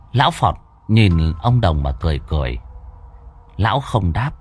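usual speaking voice

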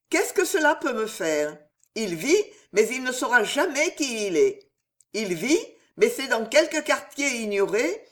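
the queen thinking it through with icy control; lightly voiced queen. The queen coldly dismissing the astrologer's news, lightly voiced.

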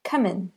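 "Come in" with the m carried into "in", kʰʌmɪn; linked demo. Shown as a demonstration. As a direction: say "Come in" as one word. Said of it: "sounds like just one word".

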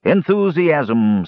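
very slow, drawn-out solemn pronouncement. A narrator's reading. Dwarf answering the muttering captive, drawn-out and solemn. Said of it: "said the dwarf solemnly".

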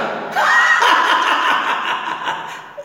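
shrill, manic forced cackle, very high; forced clown laugh. Acted. Grieving clown forcing a crazed laugh in the ring. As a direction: laugh madly through the pain.

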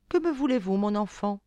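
put-on gently asking a child what she wants; soft caressing voice. Fairy softly greets the kneeling Blondine. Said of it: "d'une voix douce et caressante".

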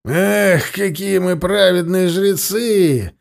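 yelling. Acted. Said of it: "заорал Зарни".

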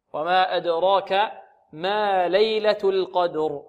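measured tajweed recitation of the verse; slow recitation. Shown as a demonstration. Teacher recites the verse slowly for the class. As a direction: chant it slowly and evenly.

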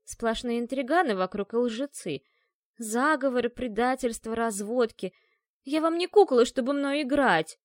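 громко, выше, конец медленнее; выпали обиду на интриганов; возмущённо. Acted. (возмущённая девушка отчитывает всех)

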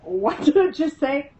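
high-pitched incredulous son; startled son. Retold or imitated. Son on the bed questions what he heard, high and startled. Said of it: "Brandon's going".

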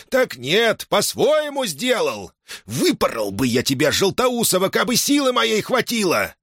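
high, strained scolding, leaning on сколько; angry old man's scolding. Acted. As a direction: drive home how many times he warned. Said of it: "закричал".

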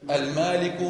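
ordinary talk, nothing marked

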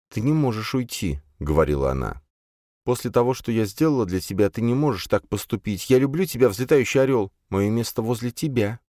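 high, urgent plea; pleading. A narrator's reading. Elfrida to Flapping Eagle, pleading that he stay. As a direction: beg him to stay.

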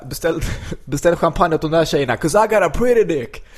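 high, mock yell through laughter; retold shouting. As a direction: holler to the next table, imitating a rowdy comic. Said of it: "skriker åt andra bord".

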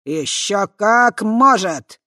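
loud, very slow pompous boast. Acted. Swamp spirit pompously confirming, loud and slow. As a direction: puff yourself up and declare it. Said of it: "напыщенно подтвердил трясинник".

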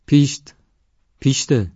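high, loud shoo to an animal. A narrator's reading. Safura shooing an animal in the storeroom, high and loud. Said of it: "با صدای بلندی گفت".

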